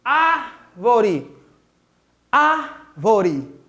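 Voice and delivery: "árvore" with a long "ár", pause, then "vore"; "árvore" slowly, split after the strong "ár"; demonstrated pronunciation. Shown as a demonstration. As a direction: hold the first syllable of "árvore", then finish it. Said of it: "Vamos pronunciar a palavra árvore".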